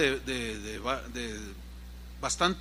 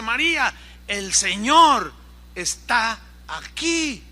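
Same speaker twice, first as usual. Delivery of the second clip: anuncio urgente; 3 semitones higher, 6 dB louder, slower than usual. Acted. Marta anuncia con urgencia.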